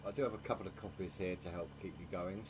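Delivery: sleepy, low-energy voice; tired. Real, not acted. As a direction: talk like you need coffee. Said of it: "if you hear me yawning".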